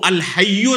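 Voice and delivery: الحی said as al-Hayy-u, doubled ya and short u; slow, careful al-Hay-yu; contrasted pronunciation. Shown as a demonstration. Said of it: "دونوں کا تلفظ الگ الگ ہے".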